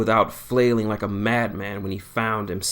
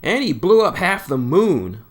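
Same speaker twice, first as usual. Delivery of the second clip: loud, slow, higher dramatic telling; 8 semitones higher, 7 dB louder than usual. A narrator's reading. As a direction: build it up like a big reveal. Sonic boasting about Eggman.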